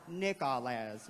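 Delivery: "Nick All As" slowly, every a short; short-vowel spelling pronunciation. Shown as a demonstration. Teacher showing class his name read by sight, slow. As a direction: sound out "Nick All As" syllable by syllable. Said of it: "my name would be".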